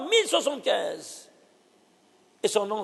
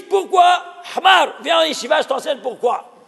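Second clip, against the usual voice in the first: fervent shout; 4 semitones higher, 4 dB louder than usual. Real, not acted. Teacher calls out a challenge.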